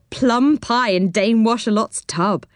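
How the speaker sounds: amused, giggly delivery; giggling. A narrator's reading. Boy to friends about the washerwoman's tub, giggling. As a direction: say it as if tickled by the mishap. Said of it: "giggled Joe".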